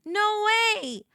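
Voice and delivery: high-pitched, disbelieving squeal; retold freak-out, high and emphatic. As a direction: re-enact stunned excitement, voice jumping up. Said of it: "freaking out".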